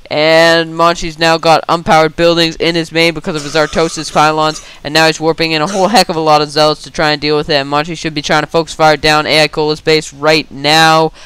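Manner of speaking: rapid-fire game commentary; talking very fast. Real, not acted. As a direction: rattle off the play-by-play without a break. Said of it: "I'm talking so damn fast".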